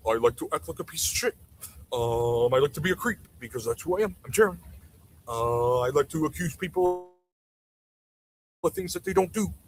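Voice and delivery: lightly voiced mocking imitation of a creep; Canadian guy impression. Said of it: "that's my impression of the, the impression of the Canadian guy".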